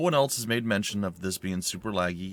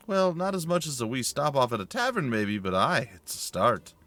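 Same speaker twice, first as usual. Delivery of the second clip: a hint of the Scottish grumbler, higher; lightly voiced Scotsman wanting a tavern; Scottish companion; 5 semitones higher than usual. The speaker replies again.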